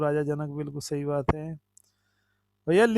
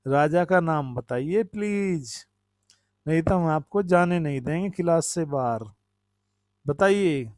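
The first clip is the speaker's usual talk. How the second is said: lightly sing-song schoolteacher's questioning; teacher quizzing children. Pretend. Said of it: "बच्चों को ऐसे पूछते थे".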